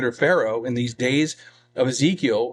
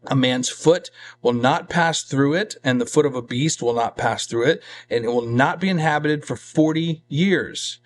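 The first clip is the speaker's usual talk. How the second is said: measured, emphatic Bible reading; scripture reading. Real, not acted. Preacher reading God's judgment on Egypt, measured scripture reading. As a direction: read it out as a solemn decree.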